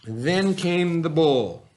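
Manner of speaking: slow, drawn-out announcement; slow suspenseful storybook reveal; dramatic slow reveal. A narrator's reading. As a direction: build suspense on each word.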